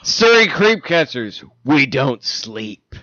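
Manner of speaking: slow, weighty slogan read; dramatic slogan. Pretend. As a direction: announce it like a tough motto.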